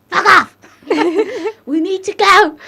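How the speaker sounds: high, loud yell; mock shout. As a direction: yell it at her to get moving. Sister shouting at her.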